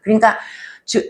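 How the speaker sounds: ordinary talk, nothing marked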